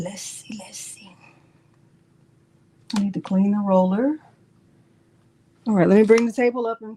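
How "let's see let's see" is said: fading whisper. Real, not acted. Trailing to a whisper while working.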